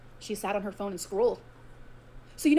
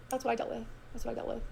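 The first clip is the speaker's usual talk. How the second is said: normal talking voice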